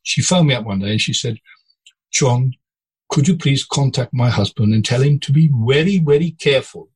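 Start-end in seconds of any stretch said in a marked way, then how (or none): 2.1-6.9 lightly put-on Norwegian accent, a bit higher; a hint of a Norwegian woman pleading on the phone. Boss imitating his captain's Norwegian wife warning him, in a light Norwegian accent. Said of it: "Norwegian accent I'm trying to do".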